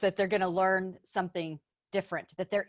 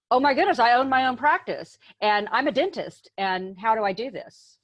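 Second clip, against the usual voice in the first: mock overwhelm; 3 semitones higher than usual. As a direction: lightly act a new owner's sudden panic. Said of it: "And then it's like".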